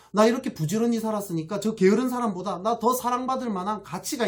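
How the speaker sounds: aggrieved self-pity rising into outrage; resentful whine building. Acted. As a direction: let the elder son's grievance swell until it bursts. Elder son's resentful inner voice.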